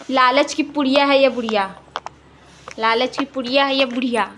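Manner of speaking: loud teasing jibe; loud taunting. Real, not acted. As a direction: throw the taunt out loudly. Repeatedly taunting mother as greedy.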